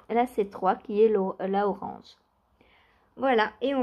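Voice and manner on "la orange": whispered aside. Real, not acted. Colour repeated under her breath.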